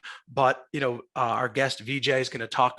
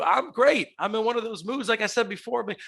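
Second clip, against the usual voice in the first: raspy allergy voice; a little rasp in the voice; smoker's rasp; 5 semitones higher than usual. Real, not acted. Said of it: "Adds a little rasp to your voice".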